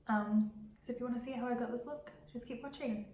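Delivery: stuffy blocked nose, nasal tone. Real, not acted. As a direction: speak through a head cold. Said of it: "lovely nasally voice".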